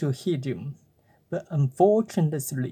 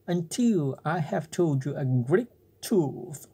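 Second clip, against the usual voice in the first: whispered cricket. Acted. Cricket speaking.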